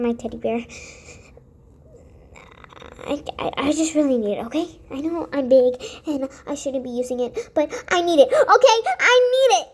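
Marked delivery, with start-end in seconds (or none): 3.1-9.7 frantic, swelling insistence; rising desperate plea. Acted. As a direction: beg harder until it bursts out. Pleading, building to outburst.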